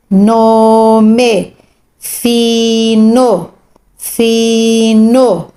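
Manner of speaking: "Fabiano" drawn out syllable by syllable; slow syllables. Shown as a demonstration. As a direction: sound out "Fabiano" for a child. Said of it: "sílabas". (sílaba por sílaba)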